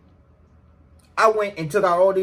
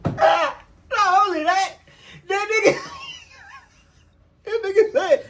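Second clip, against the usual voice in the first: excited; 14 semitones higher than usual. Real, not acted. Hyped interjection before retelling.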